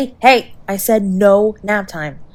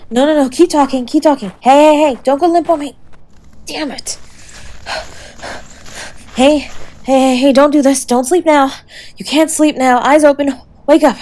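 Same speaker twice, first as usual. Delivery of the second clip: panicked pleading; 5 semitones higher than usual. Real, not acted. Begging the fading partner to stay awake, panicked. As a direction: shake them awake with your voice.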